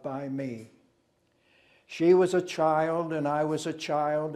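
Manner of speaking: measured verse delivery with forceful openings; poem recitation. Acted. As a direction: recite it as a poem, letting each stanza settle.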